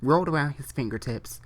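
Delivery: reading a fan fiction aloud; story reading. Acted. Reading fan fiction to his viewers, story narration. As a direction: read the story through to the viewers.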